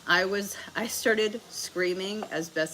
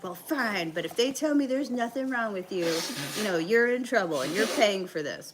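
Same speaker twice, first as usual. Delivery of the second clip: higher-pitched mock threat; imitated scolding mom; 4 semitones higher than usual. Mom grudgingly agrees to urgent care, scolding. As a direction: play an exasperated mom giving in with a warning. Mom's angry warning, acted.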